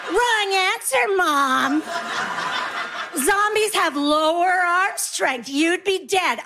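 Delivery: put-on high, smug child voice, slowing down; know-it-all kid. Kids in the car correcting Mom about zombies, high and smug. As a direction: lecture Mom like a smug little expert. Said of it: "they're like".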